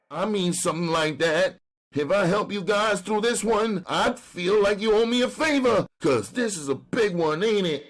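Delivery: high, pleading street hustler. Acted. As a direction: beg like a jailed junkie. Brown bargains.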